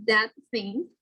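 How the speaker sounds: "that thing" with the T made on the teeth; tongue on the teeth for the T in "that" before "thing"; dental T. Shown as a demonstration. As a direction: slide the T of "that" into the TH of "thing". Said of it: "becomes dental plosive before a dental consonant".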